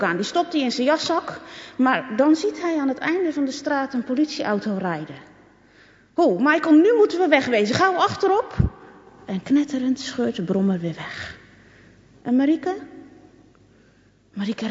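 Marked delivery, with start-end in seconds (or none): 6.1-8.6 higher, louder, fast urgent call; Punky Dunky spotting the police car; urgent alarm. A narrator's reading. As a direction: hurry your mate off the street. Bully fleeing police.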